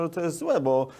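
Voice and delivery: usual speaking voice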